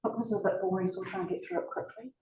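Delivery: bored presenter. Retold or imitated. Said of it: "they'll go like this".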